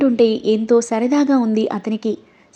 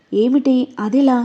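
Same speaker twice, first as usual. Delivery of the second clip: slow, puzzled rising ask; surprised question; slower than usual. Acted. Manu asks Chandu, mildly surprised, how he knows her. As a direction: draw out అదెలా in mild surprise. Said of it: "ఆశ్చర్యపోయి అడిగింది".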